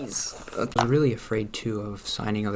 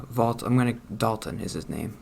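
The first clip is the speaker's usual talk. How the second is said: ordinary delivery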